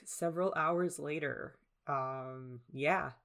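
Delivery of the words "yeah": hoarse, froggy throat; croaky with a frog in the throat. Real, not acted. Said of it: "I have a frog in my throat now".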